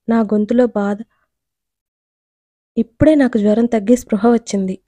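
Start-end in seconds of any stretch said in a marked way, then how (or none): none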